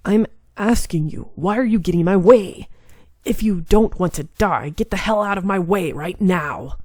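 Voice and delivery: lightly voiced arrogant demon demanding answers; a hint of a haughty clan head; cold demon lord. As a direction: demand it with icy pride. Kazuma threatens Amagiri.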